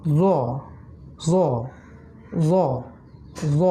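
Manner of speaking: জ said with slightly rounded lips; rounded letter sound. Shown as a demonstration. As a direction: round the mouth a little on জ. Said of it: "মুখটা সামান্য গোল হবে".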